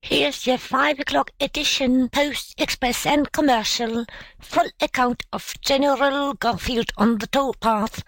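high-pitched newsboy sales patter; newsboy's shout. A narrator's reading. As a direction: call out the papers like an urchin. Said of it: "shouted three urchins".

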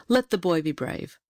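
decree it like a king; king's voice. A narrator's reading. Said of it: "said at once".

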